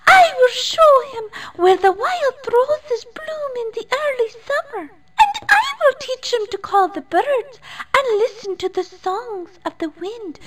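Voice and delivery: very high, fast eager fairy voice; thrilled tiny fairy, rushing; eager exclamation. A narrator's reading. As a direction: burst out with eager plans. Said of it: "exclaimed Dandelion".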